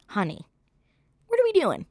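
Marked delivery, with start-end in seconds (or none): 1.3-1.9 mock exasperation. Scolding Khloe in mock disbelief.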